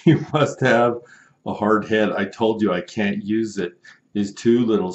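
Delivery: a customer's mock indignant rant; mock angry customer. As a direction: read it like a fed-up buyer. Angry customer message read aloud.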